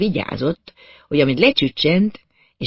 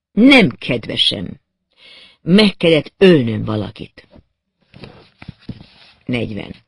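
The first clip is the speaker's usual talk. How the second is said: chillingly calm confession; 3 semitones lower, 4 dB louder than usual. Acted. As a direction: let each word land like a threat. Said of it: "kemény tekintetű volt".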